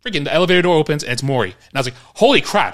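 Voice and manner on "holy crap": high, loud amazed blurt; big astonished exclamation, played for laughs; starstruck shock. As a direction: act out stunned recognition. Acted shock at meeting Maury.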